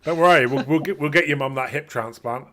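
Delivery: hammed-up generous boss, loud and lifted; mock eager boss. Acts out boss eagerly promising help.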